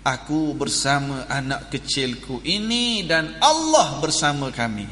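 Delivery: lightly acted steadfast mother; resolute retold answer.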